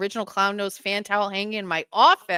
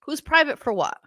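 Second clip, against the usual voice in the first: high but less forceful question; incredulous repeat; 6 semitones higher than usual. Real, not acted. Pressing a viewer on the comment, mildly incredulous. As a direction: press the question in puzzled disbelief.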